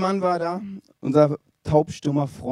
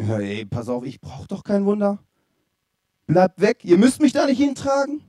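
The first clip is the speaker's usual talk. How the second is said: mock protest; 3 semitones higher than usual. Deaf man refusing his friends.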